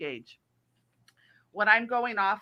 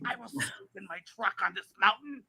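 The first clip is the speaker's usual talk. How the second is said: defiant quote. Retold or imitated. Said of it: "And she goes".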